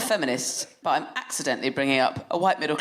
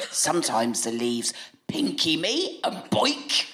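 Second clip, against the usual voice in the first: put-on silly toddler. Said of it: "And he went".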